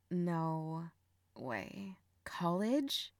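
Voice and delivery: stunned, near-whispered questions; hushed disbelief. Acted. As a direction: let the shock take your voice away. Stunned by brother's confession.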